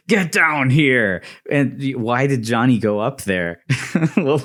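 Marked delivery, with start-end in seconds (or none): 0.1-1.2 slow, louder Scorpion command. Retold or imitated. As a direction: bark it down slowly like Scorpion. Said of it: "he says".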